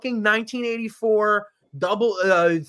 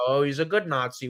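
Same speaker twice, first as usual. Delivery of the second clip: mock quote; 6 semitones lower, 4 dB quieter, faster than usual. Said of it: "The Anti-Defamation League says so".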